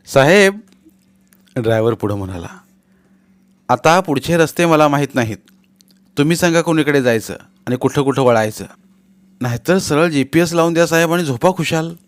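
lightly voiced driver calling out; a hint of a driver rousing his boss; driver's voice. Driver addresses sleeping boss.

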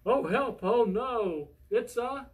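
high, loud cry, drawn out at the end; storybook panic. Acted. Mouse suddenly sees the Gruffalo, storybook panic. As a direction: wail in hammed-up alarm.

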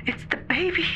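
put-on scream-cry as the baby crawls in; hysterical terror.

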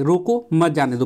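रोको set apart, then मत जाने दो run together; pause after रोको. Shown as a demonstration. Teacher showing the first comma placement, pause after रोको. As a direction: break after रोको, keep मत joined to जाने दो. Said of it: "पहला वाले में".

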